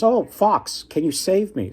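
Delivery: high, pleading dragon voice; a fat, lazy dragon begging the fox; scared plea. Retold or imitated. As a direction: beg for help, pitch jumping up.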